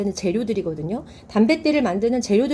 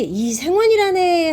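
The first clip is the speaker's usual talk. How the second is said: higher, slow, drawn-out theatrical line; acted nobleman's relief; 7 semitones higher, 3 dB louder, slower than usual. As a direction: announce it like a mollified nobleman, lightly hammed-up. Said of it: "하면서 안심을 합니다". (안심하는 양반 흉내)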